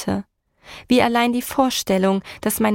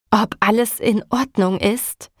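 mildly raised, echoing the question back; mild shout. Acted. Husband shouting back at the driver, mild shout. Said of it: "schrie Martin".

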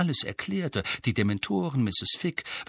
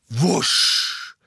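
high, drawn-out whoosh; whooshing noise; 5 semitones higher, 4 dB louder than usual. A narrator's reading. Owl shoots from kitchen chimney, whooshing. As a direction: imitate a sudden rush of air. Narrator imitates owl rushing in.

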